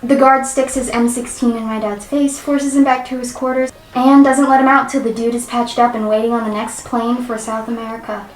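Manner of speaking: lively forum-story narration; story read-aloud. Acted. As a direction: read it out like a first-hand account.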